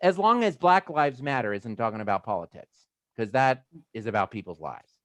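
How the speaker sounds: a touch of heated rant; lightly fired-up retort; mild rant. Acted. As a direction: push back with mild heat. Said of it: "rant over".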